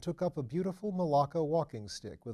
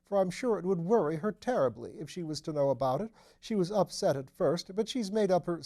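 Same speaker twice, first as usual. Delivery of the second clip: higher, louder fussy nervous voice; nervous little man; 7 semitones higher, 6 dB louder than usual. A narrator's reading. Nervous Phipps fussing to his lordship, higher and louder. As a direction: fret anxiously up in the voice.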